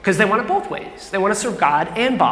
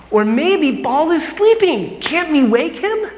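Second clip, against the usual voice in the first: sarcastic taunting, climbing higher toward the end; mocking; 4 semitones higher than usual. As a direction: trash talk the rival prophets. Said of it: "he just starts mocking them".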